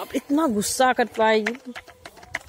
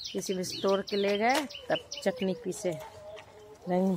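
much softer, hushed garden show-and-tell; hushed tour; 6 dB quieter than usual. Real, not acted. Softly showing garden plants. (बगीचा दिखाते हुए धीमी दबी आवाज़)

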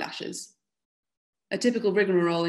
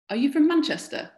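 higher, louder, mildly astonished challenge; incredulous question; 9 semitones higher, 5 dB louder than usual. A narrator's reading. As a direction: voice jumps up in narrated disbelief. Incredulous challenge in checkpoint quarrel.

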